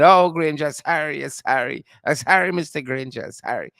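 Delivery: loud mock plea, falling away; put-on pleading lament; mock crying apology. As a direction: imitate someone wailing sorry, then sinking. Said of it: "and then there's a cry later".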